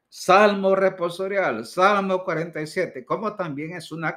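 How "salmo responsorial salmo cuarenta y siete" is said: mock announcement. Shown as a demonstration. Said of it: "Nunca es correcto decir".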